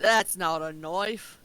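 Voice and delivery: put-on slow, drawn-out Australian accent. Friends joking, quotes the film in a hammy Australian accent. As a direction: do a hammy Australian movie line. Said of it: "I apologize to all of Australia for that accent".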